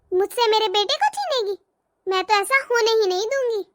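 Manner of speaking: sly, gloating aside to herself; villainous mother-in-law sneering alone; scheming gloat. Acted. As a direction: savour the victory, spiteful and private.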